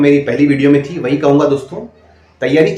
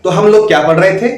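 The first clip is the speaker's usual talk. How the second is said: higher and louder, a teacher asking the class; loud classroom question; 3 semitones higher, 4 dB louder than usual. Retold or imitated. Mimicking a candidate's demo line to the class, loud and high. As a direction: call it out to a room of kids. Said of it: "ये मत बोलिए दोस्तों".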